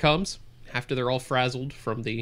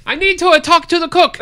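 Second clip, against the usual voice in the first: very high, loud newsreel bark; old newsreel narrator; 11 dB louder than usual. Acted. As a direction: shout it like a newsreel announcer. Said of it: "newsreel voice".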